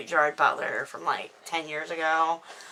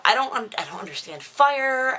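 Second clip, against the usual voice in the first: exasperated; 8 semitones higher, 4 dB louder than usual. Real, not acted. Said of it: "rant about fire, voice shoots up".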